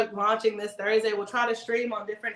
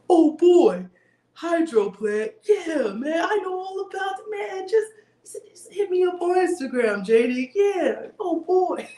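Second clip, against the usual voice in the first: much higher, loud, hammed-up accent of a friend; imitating Kelvin's accent; 8 semitones higher, 4 dB louder, slower than usual. Telling viewers how friend Kelvin would answer, hammed-up high accent. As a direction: play the excited friend with his accent, shouting. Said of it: "I love his little accent".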